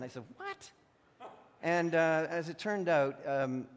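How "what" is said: sharp, very high retold gasp of shock; jolted by terrible news; shocked disbelief. Hearing son is airlifted.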